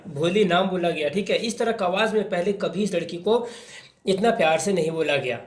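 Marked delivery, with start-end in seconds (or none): none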